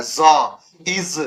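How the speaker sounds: ज़ and इज with a buzzing z; vibrating nukta sound. Shown as a demonstration. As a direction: voice the z in इज, letting it vibrate. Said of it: "नुक्ता, vibrating sound देता है".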